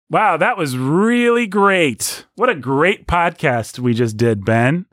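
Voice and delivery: slow, drawn-out mock amazement; sarcastic. Shown as a demonstration. Host showing sarcasm by praising their podcast, sarcastic. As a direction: stretch the praise until it sounds insincere. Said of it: "What's, like, a sarcastic statement".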